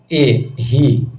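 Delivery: ए and ही said short and quick; short vowel demo. Shown as a demonstration. Teacher showing students a short vowel, said quickly. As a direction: clip ही short, a short i sound. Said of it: "जैसे बोलते हैं".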